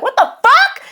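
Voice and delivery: high-pitched startled yell; shrieked outburst, reenacted; retold scream. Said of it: "And just scream it".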